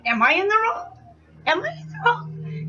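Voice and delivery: very high questioning inner voice; self-doubting question. Retold or imitated. Part of me wondering after the fight, self-doubting.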